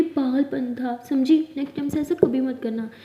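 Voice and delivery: loud, firm warning; stern scolding. Acted. Aliya warns Maya never to do it again, loudly. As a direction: lay down the law, hard.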